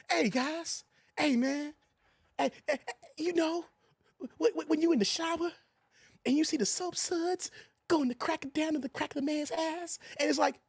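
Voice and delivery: hushed, hesitant voice of a nervous man; a lightly voiced shy guy trying to laugh it off; movie character impression. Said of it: "I'm actually doing the voice impersonations".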